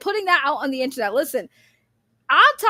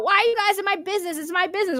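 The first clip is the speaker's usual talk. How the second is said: fast, higher petulant whine; mock whiny complaint; 5 semitones higher, faster than usual. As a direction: mimic a defensive streamer. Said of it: "And then cry about".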